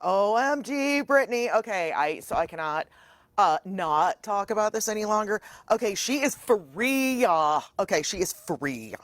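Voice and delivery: over-the-top superfan of a pop star; gushing fan. Pretend. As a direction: gush it, stretching the key words. Gushing fan celebrating a pop star's freedom.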